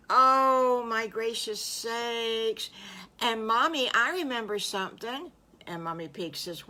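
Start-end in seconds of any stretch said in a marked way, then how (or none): 0.1-5.3 higher piglet voice with a loud, drawn-out "Oh"; high, eager child voice; excited little piglet. Acted. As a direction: exclaim like a little piglet bursting with a memory. Piglet exclaims over memory.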